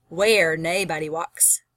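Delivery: slow, measured Scottish "naebody"; Scottish accent. Shown as a demonstration. Teacher repeating the dialect line for students, slow Scottish accent. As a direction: draw out "Where naebody walks" in Scottish dialect. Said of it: "It's a Scottish dialect".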